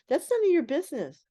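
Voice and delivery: mock-curt, keeping her pay private; brushing off a nosy question. Coworkers brushing off the new girl, a mild retold curtness. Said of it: "And they go".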